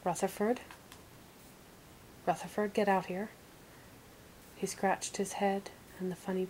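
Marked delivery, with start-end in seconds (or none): 0.0-0.6 rising call in a troll voice; lightly voiced troll calling a name; nasal troll voice. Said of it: "in his distinct nasal troll voice". 2.2-3.3 troll calling out, impatient; troll barking a command at the cave; nasal troll voice, commanding. Acted. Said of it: "in his distinct nasal troll voice".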